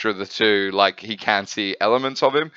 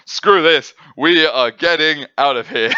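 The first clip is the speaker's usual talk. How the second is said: panicked bailing out; 6 semitones higher, 6 dB louder than usual. Retold or imitated. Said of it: "been like".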